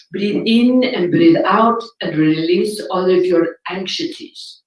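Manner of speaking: slow, airy guide voice, mocking; drawn-out calming instructor imitation; slow soothing meditation voice. Mimicking a meditation teacher reading to listeners, slow and mock-soothing. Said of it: "she's like".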